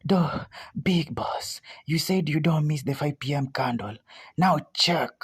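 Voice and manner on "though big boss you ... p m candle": anxious whisper, hardly voiced; scared whisper. Real, not acted. Trader watching a client's live trade, scared whisper. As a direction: breathe it out like you fear the chart will hear. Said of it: "I'm starting to be scared".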